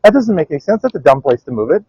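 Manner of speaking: high, loud mock scolding; hammed-up grandmother yelling at movers; retold yelling. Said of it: "She'd come back and yell at them".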